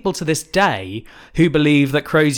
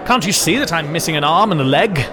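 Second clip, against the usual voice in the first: pompous gentleman; 3 semitones higher than usual. Acted. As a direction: bluster like an old explorer. Acted refusal by Sir James.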